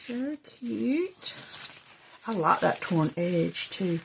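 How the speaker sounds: talking around a paintbrush; words muffled by a brush held in the teeth; paintbrush in mouth. Real, not acted. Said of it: "Sorry, I got the, the paintbrush in, um, my mouth".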